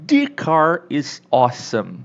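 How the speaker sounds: drawn-out emphatic "thee car". Shown as a demonstration. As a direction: lean on "The" to show it's the best car. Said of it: "pra dar essa ênfase, você tem que falar".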